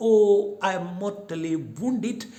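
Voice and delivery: hammed-up, loud, high dying cry; fake death cry. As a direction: overplay a fake fatal wound. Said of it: "pretends to be mortally wounded".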